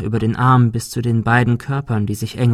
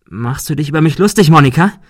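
gereizte Frage; 4 semitones higher, 6 dB louder, faster than usual. A narrator's reading. Ben fragt gereizt.

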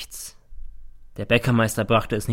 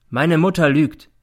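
slow, raised, loud accusation; slow, deliberate; 6 semitones higher, 7 dB louder than usual. A narrator's reading. Son accusing his mother in court, slow and deliberate. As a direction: weigh each word firmly. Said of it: "sagt er langsam".

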